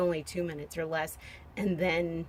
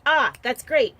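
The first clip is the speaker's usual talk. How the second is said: mock-cheery teacher; 5 semitones higher, 10 dB louder, slower than usual. Teacher approving a silly answer.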